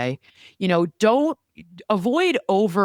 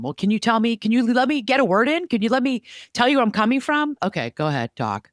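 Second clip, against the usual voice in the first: mock exasperated; 5 semitones higher than usual. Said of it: "I've found ways to".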